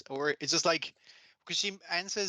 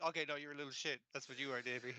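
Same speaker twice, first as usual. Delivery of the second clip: muttered aside; 10 dB quieter, faster than usual. Retold or imitated. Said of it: "It's like".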